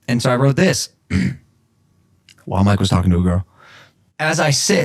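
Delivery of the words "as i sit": measured recital of self-penned prose; earnest written-piece read-aloud; formal literary reading. Real, not acted. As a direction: read it out like a solemn manifesto. Reads own written manifesto aloud.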